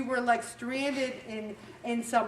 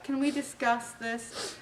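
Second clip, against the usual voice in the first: calm question; 5 dB quieter than usual. Retold or imitated. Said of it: "if you very calmly say".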